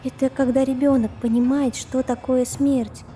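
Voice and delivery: serious, grown-up. Acted. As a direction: say it with sober weight. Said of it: "сказала совсем по-взрослому, серьёзно". (серьёзно, по-взрослому)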